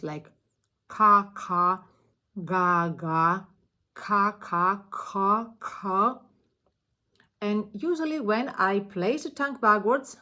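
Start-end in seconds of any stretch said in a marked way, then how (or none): 0.9-6.2 punchy therapy drill syllables; velar syllable drill. Shown as a demonstration. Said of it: "target phonemes".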